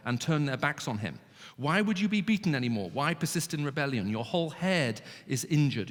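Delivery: stern scripture reading. Shown as a demonstration. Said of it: "what kind of voice do you think this should be read with".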